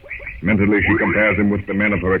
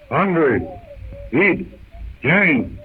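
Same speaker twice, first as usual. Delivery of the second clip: Tarzan's warning; 7 semitones higher, much slower than usual. Acted.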